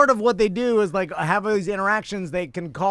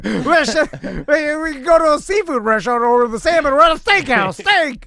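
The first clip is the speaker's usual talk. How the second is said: mock outrage; 6 semitones higher, 4 dB louder than usual.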